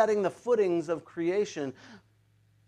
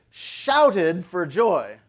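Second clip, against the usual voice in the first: SHOUTED stretched out slowly and punched; slow, emphatic weight on SHOUTED; stressed SHOUTED; 4 dB louder, much slower than usual. A narrator's reading. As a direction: draw out the word SHOUTED with emphasis. Emphasizing the quoted scripture word.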